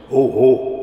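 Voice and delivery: a sudden loud "Ho, ho" as a startled call; mama calls out in alarm, loudly. A narrator's reading. Mama in the car calls to papa as police appear, loud alarmed call. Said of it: "riep mama nog".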